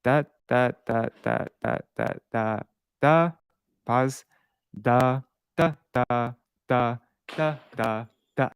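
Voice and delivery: da syllables tapped out in the meter's rhythm. Shown as a demonstration. Teacher modeling the Malini rhythm with nonsense syllables. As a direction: count the meter on "da" with a pause. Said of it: "do this".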